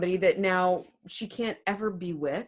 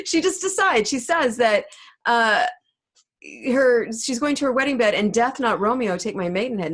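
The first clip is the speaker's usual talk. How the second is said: loud amused retelling; 6 dB louder than usual. Real, not acted.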